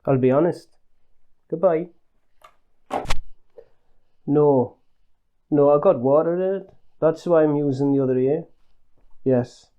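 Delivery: put-on Northern English accent, lightly done; terrible accent. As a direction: fake a broad Northern English phone voice. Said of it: "apologies for the terrible accent".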